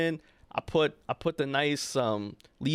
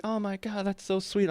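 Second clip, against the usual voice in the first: higher, gushy mimicked reaction; lightly voiced gushing manager; 5 semitones higher than usual. Manager reacts to his concert news, mock gushing. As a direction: imitate a touched listener, pitched up.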